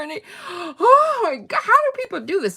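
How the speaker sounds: high put-on exasperation; Barbie after the tour. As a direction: keep the doll voice, mock weary. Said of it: "she's like".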